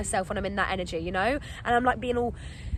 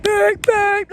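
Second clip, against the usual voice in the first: high, loud car-horn beeps; beep-beep, pushed up and loud; imitated beeping; 8 semitones higher, 8 dB louder than usual. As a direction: mimic impatient honking.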